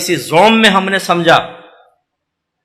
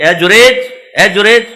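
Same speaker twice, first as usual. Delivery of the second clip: calling out; 2 semitones higher, 4 dB louder than usual. Acted. Old mother calls her son.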